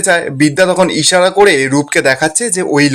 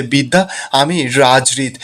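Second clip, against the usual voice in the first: low, soft and slow, about to cry; near tears; 4 semitones lower, 4 dB quieter, slower than usual. A narrator's reading. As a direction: choke out the name tearfully. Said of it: "কাঁদু কাঁদু হয়ে বিদ্যাকে বলছে যে". (কাঁদো কাঁদো গলায়)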